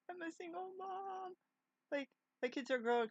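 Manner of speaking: a squeaky sing-song declaration; mock high voice. Mock self-announcement.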